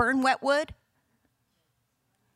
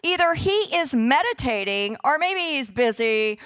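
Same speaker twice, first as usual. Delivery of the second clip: mocking. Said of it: "Elijah mocked them".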